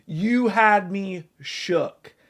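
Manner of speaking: slow, drawn-out repeat; slow mock-stunned repeat; slow emphasis. Real, not acted. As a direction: stretch it out to drive it home.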